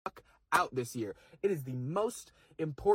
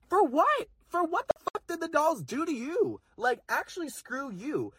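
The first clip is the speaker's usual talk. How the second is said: outraged; 11 semitones higher than usual. Real, not acted. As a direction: demand an answer, indignant. Outraged rant defending trans women.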